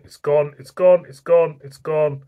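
it's overflowing, react fast; excited. Real, not acted. Beer foams over the glass.

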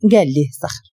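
ordinary delivery

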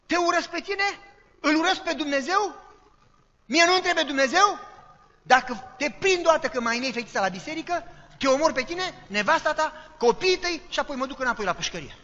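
high, loud, enraged yelling; furious shouting threat. Retold or imitated. Ex-convict at the door threatening the pastor, furious shout. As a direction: bellow the threat like a man with an axe.

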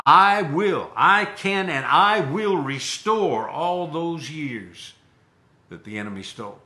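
loud, slow, weighty promise; emphatic divine promise. Retold or imitated. Preacher voicing God to the woman, slow and emphatic. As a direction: drive every word home.

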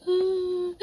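high startled cry of the name; alarmed cry. Real, not acted. Mom cries out in alarm at her sick daughter.

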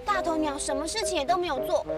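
plain reading voice

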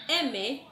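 "M" con los labios cerrados, mmm; sonido de la M. Shown as a demonstration. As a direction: zumbar la "M" con la boca cerrada. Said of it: "Recordemos también el sonido de la M". (pronunciar la "M" zumbando)

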